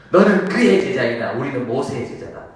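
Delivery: mildly heated quoted rebuke; flaring up. Acted. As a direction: snap back like an offended Pharisee. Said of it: "바리새인들이 욱합니다".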